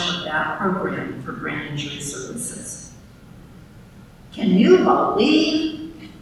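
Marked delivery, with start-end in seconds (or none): 4.3-6.1 high, slow incredulous question; incredulous quote. Retold or imitated. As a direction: her exasperated catchphrase. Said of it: "often how the conversation started with her".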